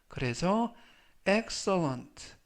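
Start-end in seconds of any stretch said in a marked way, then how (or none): 1.3-2.3 "excellent" with the stress on its opening E; stress on first syllable. Shown as a demonstration. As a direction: slowly model "excellent", leaning on the first E. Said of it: "강세는 맨 앞에 있는 알파벳 E에".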